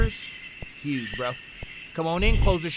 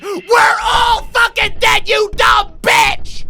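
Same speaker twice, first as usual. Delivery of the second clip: loud, high, drawn-out shriek; panicked scream; 14 semitones higher, 8 dB louder, much slower than usual. Real, not acted. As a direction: scream it at the top of your voice. Screaming as the monster arrives.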